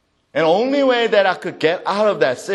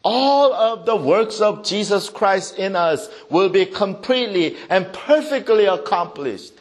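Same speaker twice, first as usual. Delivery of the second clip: raised, forceful sermon delivery; emphatic preaching; 6 semitones higher, 4 dB louder than usual. Real, not acted. Preacher declaring Christ's works accomplished, emphatic. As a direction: proclaim it, lifting the key words.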